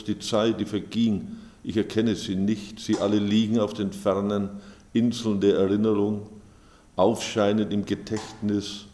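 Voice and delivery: measured, clearly projected poem recital; poetry reading. Acted. Author reading own poems to an audience, measured recital. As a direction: read it out line by line, with deliberate pauses.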